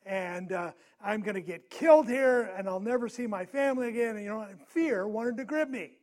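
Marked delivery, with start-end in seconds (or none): 0.1-4.2 fearful thought. Retold or imitated. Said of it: "I'm thinking".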